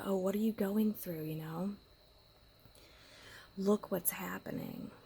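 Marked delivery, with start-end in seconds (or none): 0.0-1.2 whispered self-question. Retold or imitated. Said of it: "these little tests of".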